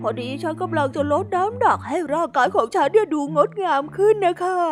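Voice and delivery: put-on high, soft, apologetic girl voice; a shy hippo girl caught off guard; timid little hippo. Suzy's voice. (ฮิปโปสาวขี้อาย เสียงสูงและเบา)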